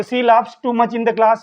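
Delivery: each English word spaced out very slowly; deliberate classroom dictation pace. Shown as a demonstration. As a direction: read it out slowly for students to write down. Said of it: "teacher dictating answer".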